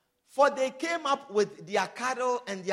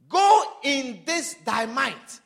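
slow commanding; 6 dB louder, slower than usual. Acted. The Lord's commission to Gideon.

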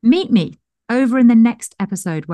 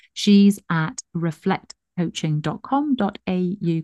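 put-on Australian accent. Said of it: "tell me off for that accent".

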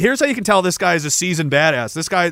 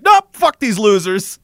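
slow, loud, higher-pitched brush-off; imitated cocky dismissal; 4 semitones higher, 5 dB louder, slower than usual. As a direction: wave them off like an overconfident soldier. Acting out cocky soldier.

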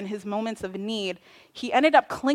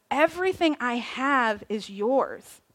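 gentle father; 3 dB quieter, slower than usual. Acted. Father reassuring son.

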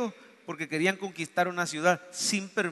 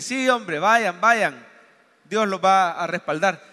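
sarcastic; slower than usual. Retold or imitated. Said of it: "como sarcástico".

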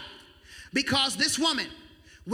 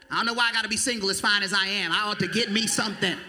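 raised, self-admiring mock voice; mock vain single; 8 semitones higher than usual. Preacher playing a vain single woman complaining.

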